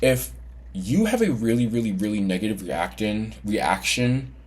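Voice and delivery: slightly slurred around a retainer; retainer in mouth. Real, not acted. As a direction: talk with a retainer in. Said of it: "sorry, my retainer is in".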